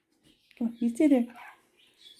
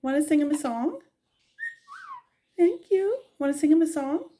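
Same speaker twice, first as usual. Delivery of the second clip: coaxing bird; 7 semitones higher than usual. Real, not acted.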